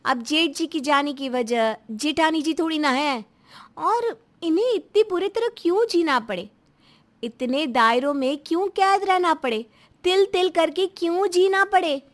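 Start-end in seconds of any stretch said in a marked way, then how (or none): 3.8-12.0 impassioned protest. Acted. Defends sister-in-law against mother-in-law.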